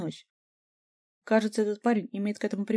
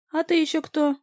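higher, louder aggressive demand on ТЫ; hostile challenge; 8 semitones higher, 6 dB louder than usual. A narrator's reading. The doused guy confronts the narrator, high and hostile. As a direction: snap at the stranger.

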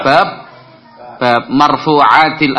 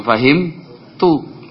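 slow model answer; 4 semitones higher, much slower than usual. Shown as a demonstration. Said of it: "jawabannya apa?".

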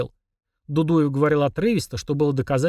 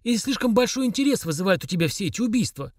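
higher, snide insinuation; a major insinuating the suspect did it; snide smirk; 8 semitones higher than usual. A narrator's reading. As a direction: needle him with a smirk. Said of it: "ехидно ухмыльнулся Дудуев".

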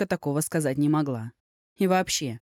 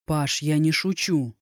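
irritated but calm. Acted. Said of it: "старался говорить спокойно, но в голосе слышалось раздражение".

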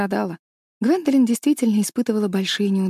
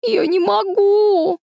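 очень высоко, громко и медленно, с надрывом; завыть от отчаяния; отчаянный вопль; 12 semitones higher, 5 dB louder, much slower than usual. A narrator's reading. Застрявшая девочка в панике. (отчаянный детский вопль)

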